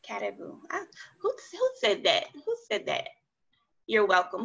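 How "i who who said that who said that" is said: excited. Real, not acted. Teacher excited by student's answer.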